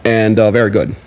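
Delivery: a hint of a statesman with filler pauses; Obama. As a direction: answer like a measured president at a press conference. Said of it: "thought he was sitting right next".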